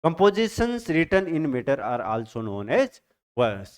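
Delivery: reading a definition aloud very slowly; slow, drawn-out textbook read; slow dictation reading. Shown as a demonstration. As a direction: spell it out slowly for students to note down. Teacher reads definition aloud.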